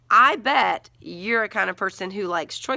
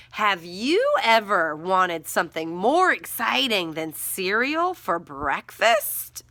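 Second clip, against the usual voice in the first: slow dictation; slower than usual. Shown as a demonstration. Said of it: "So I'm gonna say".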